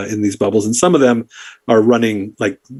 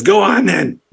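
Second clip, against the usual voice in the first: higher goblin waving them on; brisk goblin dismissal; 8 semitones higher, slower than usual. Acted. Goblin ticket-taker letting a visitor pass, high goblin voice. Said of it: "He says".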